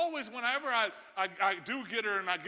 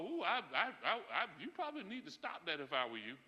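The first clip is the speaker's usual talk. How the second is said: laughing mock warning; 3 semitones lower, 4 dB quieter than usual. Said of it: "I laugh at some folk go".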